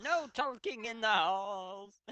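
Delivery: high, slow stern headmaster bellow; mock Dumbledore telling off goths. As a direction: scold the hallway like a cartoon principal. Dumbledore scolding students.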